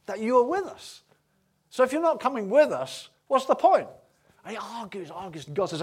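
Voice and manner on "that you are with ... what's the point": rising, louder, higher plea; pleading with God. Acted. Moses arguing with God not to leave, in a rising, louder plea. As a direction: push harder with each line until it's a cry.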